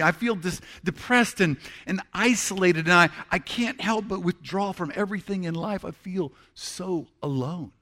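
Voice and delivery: hopeless prayer. Pretend. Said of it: "it might go something like this".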